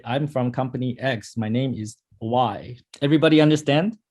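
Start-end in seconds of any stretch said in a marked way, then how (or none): 0.0-2.8 mock lazy intro. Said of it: "It's much easier to say".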